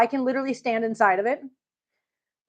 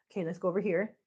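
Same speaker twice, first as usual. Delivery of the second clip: whisper; 5 semitones lower, 11 dB quieter, faster than usual. Real, not acted. Whispers near sleeping cat.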